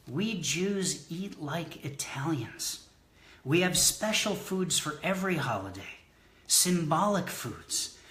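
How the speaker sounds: measured, deliberate spoken-word recital; poem reading. Acted. Poet reads a holiday food poem to the audience, measured recital. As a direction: read it as verse, pausing after each phrase.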